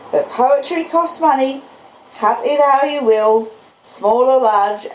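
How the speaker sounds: Joe the blacksmith. Acted. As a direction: speak as simple, proud Joe. Joe voiced in the story.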